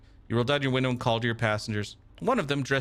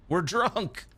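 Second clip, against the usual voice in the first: high, mock drunken yell; a touch of a drunk southern yell; drunk scream; 8 semitones higher than usual. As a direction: holler it like a happy drunk. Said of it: "starts screaming in the taxi, a deep male voice with a southern accent".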